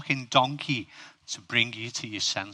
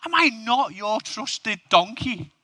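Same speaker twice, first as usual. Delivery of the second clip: hurt donkey; 9 semitones higher, slower than usual. Acted. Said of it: "And the donkey's like".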